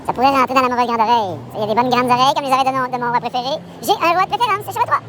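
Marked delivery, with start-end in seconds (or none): 3.8-5.0 high giddy voice. Real, not acted. High giddy praise of the king.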